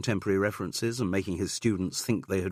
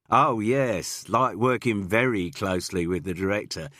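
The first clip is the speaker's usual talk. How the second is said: louder, knowing insinuating tease; 2 semitones higher, 5 dB louder than usual. Acted. Boy teases the assistant director, insinuating. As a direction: drip the innuendo on purpose. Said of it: "insinuated one of the boys".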